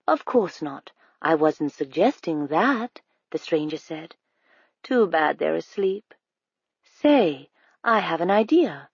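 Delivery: lightly voiced smooth-talking stranger, sweetly persuasive; a hint of a too-friendly stranger luring a child; coaxing stranger.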